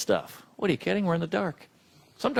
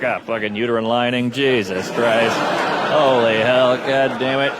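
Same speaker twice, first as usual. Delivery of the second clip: lower, grumbling complaint; mock suffering guy; 7 semitones lower than usual. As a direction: groan through it like a bleeding man. Man with period walking to work.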